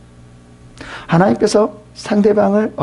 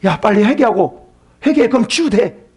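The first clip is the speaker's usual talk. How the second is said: nagging friend; 5 semitones higher than usual. Acted. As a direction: press him to repent. Acting Eliphaz urging repentance.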